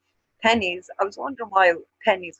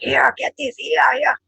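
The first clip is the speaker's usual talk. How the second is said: higher loud here, here; roaring call; 8 semitones higher, 4 dB louder, slower than usual. Shown as a demonstration. Showing how Dubliners call someone over, a loud call. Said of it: "kinda roaring".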